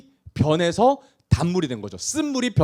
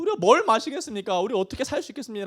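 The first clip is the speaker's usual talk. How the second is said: higher-pitched, helpless grumbling; resentful complaint; 5 semitones higher, 3 dB quieter than usual. Acted. Preacher as slumped Israelites grumbling at Moses, plaintive complaint. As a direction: whine it as if slumped in despair. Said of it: "라고 원망합니다".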